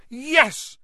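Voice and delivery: high, loud burst of victory; triumphant cheer. Acted. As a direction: punch the air with it. Triumph after locking the troll.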